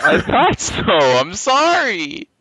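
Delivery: squeaked out very high and loud; squeaky high voice. Pretend. Teasing banter, squeaky repeat.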